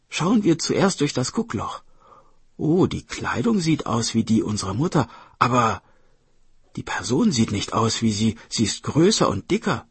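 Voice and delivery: put-on a touch lively, doubtful child; lightly voiced wary brother. Brother peers at the stranger, lightly voiced suspicion. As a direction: puzzle it out as the boy. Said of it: "sagte der Bruder".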